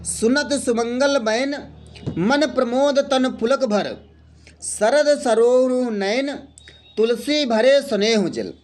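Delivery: slow, measured recital of a couplet; poem recitation. Shown as a demonstration. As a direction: recite the verse line by line. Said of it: "ये सोरठा है". (सोरठा को धीरे-धीरे पाठ करें)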